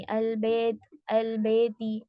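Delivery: अलबेती with a plain ए instead of ऐ; अलबेती said with ए, not ऐ; wrong vowel demo. Shown as a demonstration. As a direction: show the wrong ए sound. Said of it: "ऐसे नहीं पढ़ना".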